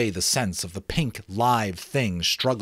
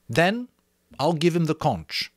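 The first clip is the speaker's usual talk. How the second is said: Ralph; 8 semitones higher, 4 dB louder than usual. Acted. Ralph setting rules.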